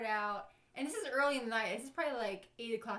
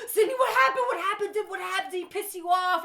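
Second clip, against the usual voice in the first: high, loud, gasping; gasping with laughter, asking fast; breathless coworker; 8 semitones higher, 10 dB louder than usual. Retold or imitated. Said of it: "She's like".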